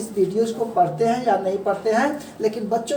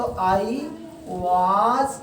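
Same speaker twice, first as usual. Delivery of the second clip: slow teaching demo; much slower than usual. Shown as a demonstration. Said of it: "तो यहाँ पर था लग गया है".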